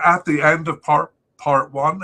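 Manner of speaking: words broken by a hiccup. Real, not acted. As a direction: talk through a sudden hiccup. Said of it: "I'm hiccuping there".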